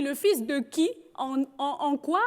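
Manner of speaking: lightly imitated Gabonese French accent, stumbling on en en; a hint of her father's Gabonese accent, puzzled. Daughter imitating her stunned father's question in a Gabonese accent. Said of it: "je vous fais avec l'accent".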